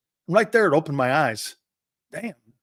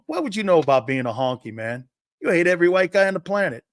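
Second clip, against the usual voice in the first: needling comeback; 3 semitones higher than usual. Retold or imitated. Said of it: "say something to them".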